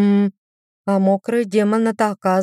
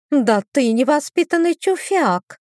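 higher, indignant cry; offended exclamation; 7 semitones higher than usual. A narrator's reading. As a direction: throw it out, deeply offended. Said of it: "воскликнула жутко обиженная сестра".

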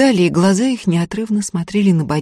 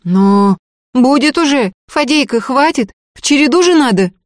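indignant voices; 8 semitones higher, 5 dB louder than usual. A narrator's reading. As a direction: protest sharply at the greedy little one. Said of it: "возмущённые голоса".

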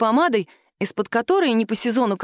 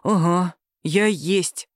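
gloomy; slower than usual. A narrator's reading. Husband gloomily admits to Sima who he is. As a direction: grudgingly own up. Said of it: "угрюмо".

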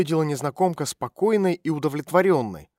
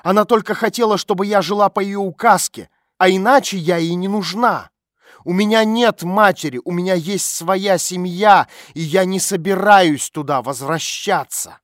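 louder, higher bitter rant; angry tirade; 5 semitones higher, 8 dB louder than usual. A narrator's reading. Olya rants about her mother, loud and higher. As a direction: pour out the grudge.

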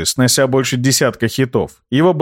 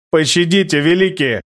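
whining plea; 4 semitones higher than usual. A narrator's reading. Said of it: "заскулил Рыжий".

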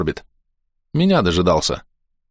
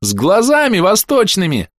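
high, loud, slow gleeful shriek; much higher child yelling with delight; 12 semitones higher, 3 dB louder than usual. A narrator's reading. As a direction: shriek it with glee. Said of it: "завопила с ещё большим восторгом".

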